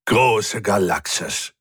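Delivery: slow growled exclamation. A narrator's reading. Furry crewmate Hubert mocking Rick's blunder, growling. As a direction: growl it out, drawn out. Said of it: "knurrte Hubert".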